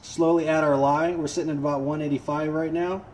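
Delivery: muffled through a chemical respirator. Real, not acted. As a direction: talk muffled behind a face mask. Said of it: "when I'm doing this with the respirator on".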